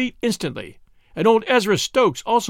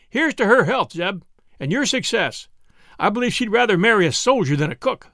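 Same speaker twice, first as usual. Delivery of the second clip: a hint of a cheery lad, louder at the start; lightly voiced toast; 6 semitones higher, 4 dB louder than usual. A narrator's reading. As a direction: raise a mock toast. Hiram toasts.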